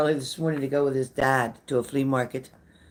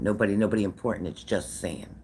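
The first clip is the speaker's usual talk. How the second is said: mocking the username; 5 semitones lower than usual.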